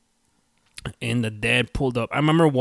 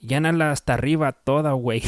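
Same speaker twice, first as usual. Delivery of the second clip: gruff dad; 4 semitones higher, 6 dB louder, faster than usual. Retold or imitated. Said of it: "And he goes".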